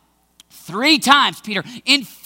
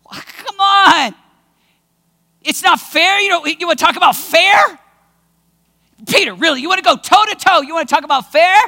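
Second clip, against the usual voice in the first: confrontational; 2 semitones higher than usual. Acted. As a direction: take him on toe to toe. Jesus confronting Peter.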